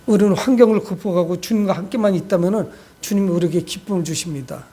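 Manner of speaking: ordinary talk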